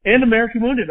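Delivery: retold heated objection. Telling his wife why he won't toast, getting worked up. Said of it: "And I was like".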